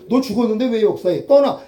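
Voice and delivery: firm command, rising on the last word; stern rebuke. Pretend. Preacher rebukes the old self, sharp command. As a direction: order the old self to leave.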